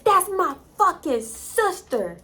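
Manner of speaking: high, slow, word-by-word protest; retold exasperated outburst. Boyfriend explaining who the girl is, exasperated. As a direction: spell it out in exasperation.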